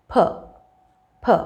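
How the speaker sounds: P burst from pursed lips; aspirated P. Shown as a demonstration. Teacher showing learners the plosive, aspirated P. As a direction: release P with a gush of air. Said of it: "purse your lips and release it".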